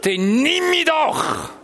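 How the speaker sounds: high, loud, slow desperate cry; retold scream. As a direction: hurl the plea out, drawn long. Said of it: "Ich habe geschrien und habe gesagt".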